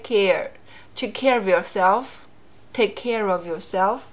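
slow lost plosion demo; dropped k, slow. Shown as a demonstration. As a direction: take care of yourself with the k of take unreleased, slowly. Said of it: "前一个爆破音完全就不读了".

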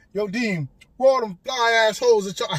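loud, hyped imitation of a rapper; rapper impression. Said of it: "had me looking like a rapper".

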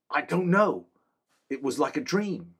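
high, earnest soldier's voice; a loyal guard reporting to his king; young man-at-arms. Acted. Same man, helpless smile.

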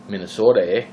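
a touch of Minnesota accent on "Minnesota, eh?", long open O and rising "eh". Shown as a demonstration. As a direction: slip into a light Minnesota accent for "Minnesota, eh?". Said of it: "the accent came out there for a second".

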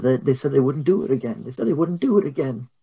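mildly shaken, halting repetition; a touch of helpless distress; shaken mother. Acted. Mary washes blood off her hands, mildly shaken. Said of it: "she's very shaken".

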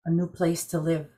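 calm storyteller reading a legend; story narration. A narrator's reading. Story narration over music.

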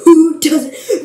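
high, loud rising question; incredulous. Real, not acted. Vlogger questioning who lacks a bathroom, incredulous. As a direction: throw it out in loud disbelief.

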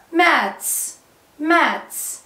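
"ماتس" ending in a voiceless ts; final s sound. Shown as a demonstration. Teacher drilling mats for pupils, "ماتس" ending in s. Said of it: "سمعنا الفاينل اس".

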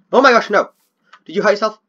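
high, loud startled cry; sudden worry for the dog; alarmed. Real, not acted.

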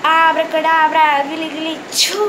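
put-on kids party magician. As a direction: cast the spell with a flourish. Magic trick incantation. (जादूगर वाला मंत्र)

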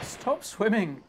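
loud slow yell at the crocodile; real shout. Real, not acted. Player shouting at an unkillable crocodile, loud and slow.

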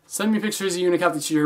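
fast, smooth, no pauses; quick rephrase. Shown as a demonstration. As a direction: rush through it to fix it. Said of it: "That coulda sounded really weird".

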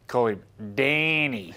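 Wayne Bennett impression. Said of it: "he talks a certain way".

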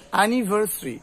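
অ্যানিভার্সারি as "a-ni-var-sri"; correct pronunciation. Shown as a demonstration. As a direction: drop the vowel between s and r in অ্যানিভার্সারি. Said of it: "উচ্চারণটা কি হবে".

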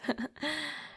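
quiet, breathy little chuckle; soft chuckle. Acted. Vampire admitting territorial habits, soft chuckle. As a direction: chuckle softly to yourself.

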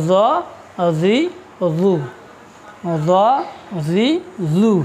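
"জ জি জু" with tongue set at the root of the upper teeth; tongue on upper gum. Shown as a demonstration. Teacher correcting a common mix-up with dhal, tongue-to-gum pronunciation. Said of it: "জিহ্বা উপরের দাঁতের মাড়ির গোড়ার সঙ্গে লাগিয়ে".

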